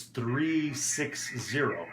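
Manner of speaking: three six zero, each digit spoken slowly and clearly; each digit separately. Shown as a demonstration. Teacher shows learners how controllers read a heading, slow and clear. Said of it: "We pronounce each digit".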